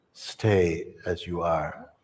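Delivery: teacher calmly guiding listeners; slow guidance. Acted. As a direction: draw it out calmly. Teacher guides slowly.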